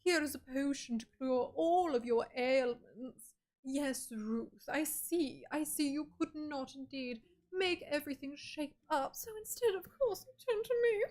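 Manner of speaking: haughty, slow, drawn-out know-it-all voice; uppity know-it-all. Pretend. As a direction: play a smug know-it-all, looking down on them. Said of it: "so much of an uppity know-it-all".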